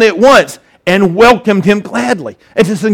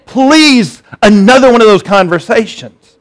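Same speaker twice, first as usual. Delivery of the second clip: mock pleading; 3 semitones higher than usual. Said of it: "none of us are thinking".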